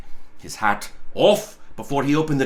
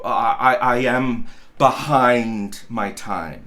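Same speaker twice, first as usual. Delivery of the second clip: stammering clerk; 5 semitones lower, slower than usual. Acted. Stammering clerk caught late.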